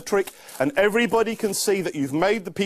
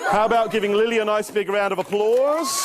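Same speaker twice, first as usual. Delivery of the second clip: calling for applause; 4 semitones higher than usual. Real, not acted. Show host calls for applause.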